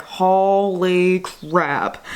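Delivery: very slow, drawn-out mock amazement; stunned reaction. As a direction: stretch out each word in acted disbelief. Acted reaction to world events.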